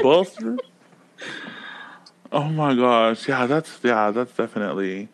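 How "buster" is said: put-on LA hood accent. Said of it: "I was just gonna say that".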